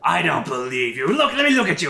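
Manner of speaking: put-on high, loud excited old man; an old advisor amazed to see a familiar face; old elf delighted. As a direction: beckon him close in delight. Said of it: "He's like".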